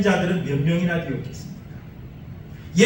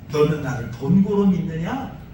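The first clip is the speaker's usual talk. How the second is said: hint of disappointment; 5 semitones lower than usual. Jesus asking Thomas, with a hint of disappointment. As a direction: let a little sorrow show. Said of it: "예수님이 좀 서운함도 담겨 있었던".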